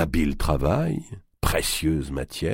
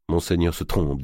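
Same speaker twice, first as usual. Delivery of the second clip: coldly. Acted. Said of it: "dit Gautier assez froidement".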